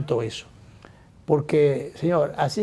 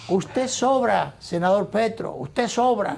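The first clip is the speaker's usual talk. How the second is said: retold outburst, pitched up, putting a rival down; half-shouted dismissal, acted out at higher pitch; mild mock shouting; 6 semitones higher than usual. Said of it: "Mucha, gritando".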